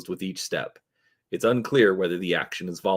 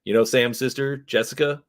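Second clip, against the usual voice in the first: perking up with a louder opening; suddenly eager to share news; light up on the opening words; brightening up; 3 semitones higher, 4 dB louder than usual. Acted. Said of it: "She brightens".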